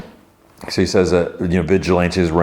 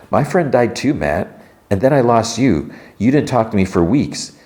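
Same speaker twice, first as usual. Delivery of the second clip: higher-pitched, lightly acted reproach; mild hurt protest; 5 semitones higher than usual. Woman confronting her friend in a retold quarrel, mildly hurt protest. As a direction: retell an upset accusation, pitched up.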